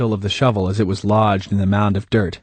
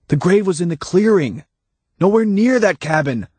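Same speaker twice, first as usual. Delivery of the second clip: higher, lightly voiced Hannah; Hannah, calm and knowing; 9 semitones higher than usual.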